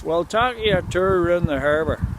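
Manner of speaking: lightly put-on Ulster Scots accent; a hint of broad Ulster Scots. Shown as a demonstration. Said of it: "get your Ulster Scots accent on".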